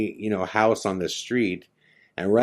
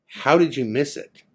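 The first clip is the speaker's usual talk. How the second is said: higher-pitched, acted demand; incredulous; 5 semitones higher than usual. Passenger presses friends who know the area, incredulous. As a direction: press them for an answer in disbelief.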